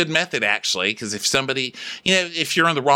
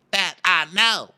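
high, insistent mock declaration; Sutton; 4 semitones higher than usual. Sutton defending herself to Diana, high insistence. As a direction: protest loyalty in a raised voice. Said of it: "you be Sutton".

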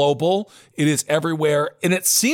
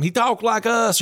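put-on Southern accent; 5 semitones higher than usual. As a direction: imitate a folksy Southern Trump. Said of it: "I don't wanna do that Southern accent".

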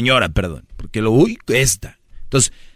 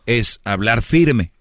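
firm speech; much slower than usual. Shown as a demonstration. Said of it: "yo no regaño ni grito ni nada".

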